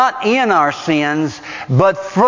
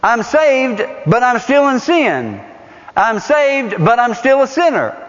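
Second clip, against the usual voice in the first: mock believer; 5 semitones higher than usual. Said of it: "people that have the erroneous understanding".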